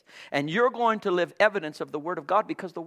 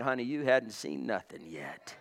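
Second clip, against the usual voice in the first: softer, lower unbothered reply; cool comeback; 6 semitones lower, 6 dB quieter than usual. Acted. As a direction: brush her off calmly. David answers wife calmly.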